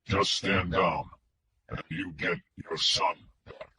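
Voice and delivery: low, slow, flat electronic kidnapper voice; mechanical filtered voice. A narrator's reading. Kidnapper on the phone to Wingo, mechanical filtered voice. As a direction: speak like a voice through a distortion filter. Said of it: "The mechanical voice came back on".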